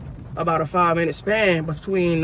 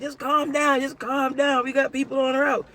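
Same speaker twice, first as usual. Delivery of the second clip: calming dispatcher; 6 semitones higher than usual. Retold or imitated.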